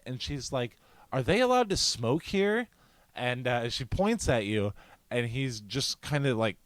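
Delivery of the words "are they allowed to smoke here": imitated indignant question, pitched high; mock a complainer, higher voice; complaining woman. Woman asking venue worker about smokers, indignant.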